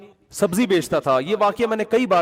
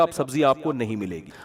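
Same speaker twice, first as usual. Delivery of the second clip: offended seller; 4 semitones lower, 4 dB quieter than usual. Retold or imitated. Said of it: "اس نے کہا".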